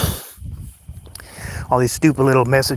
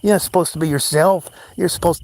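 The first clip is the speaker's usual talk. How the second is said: mock outraged bystander; 4 semitones higher than usual. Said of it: "'cause then it'd be like".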